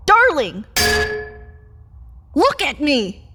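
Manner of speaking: loud, pleading call. Acted. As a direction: call out desperately for attention. Pleading vampire calling her partner.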